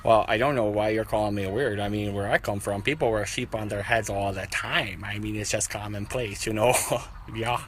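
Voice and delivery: laid-back stranger defending his sheep hat; sheep man voice. Acted. Improv sheep man character.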